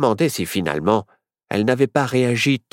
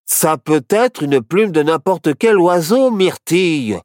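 slow, raised voice of a patient objection; defending; 6 semitones higher, 4 dB louder than usual. A narrator's reading. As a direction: argue it out slowly. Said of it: "défendit Barnabé".

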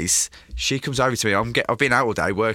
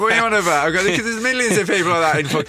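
indignant protest; 8 semitones higher, 4 dB louder than usual. Retold or imitated. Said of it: "and go".

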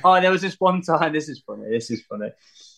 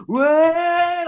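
retold whoa; 3 dB louder than usual. Lads shouting in van.

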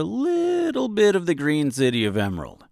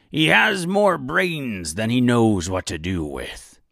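put-on pirate accent. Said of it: "a bit of a pirate accent".

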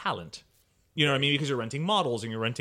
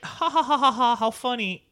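mocking fake laugh, much higher; mock laughter; 9 semitones higher, 5 dB louder than usual. Mimicking nurse's followers, fake cackling laugh. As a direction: sneer out a fake ha ha ha. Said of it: "people were just gonna be like".

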